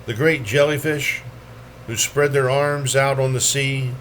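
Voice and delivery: measured poem recital, each phrase lifted then let fall; poetry reading. Acted. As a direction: read it as verse, pausing at line breaks. Reads poems aloud at a poetry reading.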